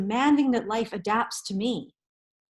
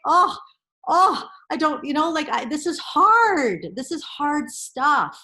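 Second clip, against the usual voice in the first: retold crying; 3 semitones higher, 5 dB louder than usual. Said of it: "I was crying this morning".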